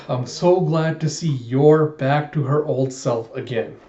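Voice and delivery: put-on slow, deliberate "Yor back to her old self"; careful retake. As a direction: set out "Yor" and each word slowly, correcting a stumble. Corrected retake after stumbling twice.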